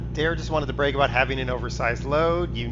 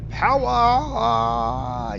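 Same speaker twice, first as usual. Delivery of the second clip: loud, high burst of excitement; excited shout; 9 semitones higher, 6 dB louder than usual. Real, not acted. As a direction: shout it as the truck takes off. Truck surges forward in game.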